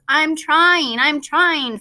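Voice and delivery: high, loud holler through the wall. A narrator's reading. Fudge hollering to his brother through the wall, loud. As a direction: yell it back at the wall. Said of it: "Fudge hollered".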